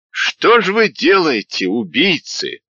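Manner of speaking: put-on old man crying out at the murder; anguished cry. A narrator's reading. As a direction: cry out at the killers. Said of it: "закричал какой-то высокий худой старик".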